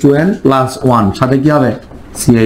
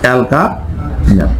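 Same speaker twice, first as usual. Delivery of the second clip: অ্যালকানেল drawn out very slowly, syllable by syllable; slow dictation; much slower than usual. Shown as a demonstration. Teacher dictating while writing, very slow. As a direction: stretch অ্যালকানেল out as you write it. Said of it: "আমি দুটো লিখে দিচ্ছি".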